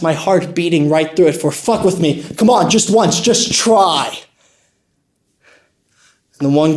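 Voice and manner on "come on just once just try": cocky challenge, TRY drawn out; acted tough-guy goading; daring taunt. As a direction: dare him to make a move. Daring the gunman to attack.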